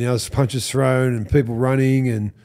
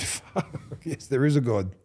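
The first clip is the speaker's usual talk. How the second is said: hushed mock exclamation; 2 semitones higher, 7 dB quieter than usual. Exhilarated private reaction retold.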